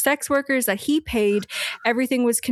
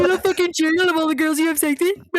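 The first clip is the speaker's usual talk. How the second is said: incredulous; 7 semitones higher, much faster than usual. Real, not acted. Incredulous rant at the killer.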